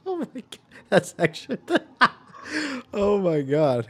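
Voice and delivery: laughing in disbelief; shocked giggle through the words; horrified amusement. Real, not acted. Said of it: "Why am I laughing at that".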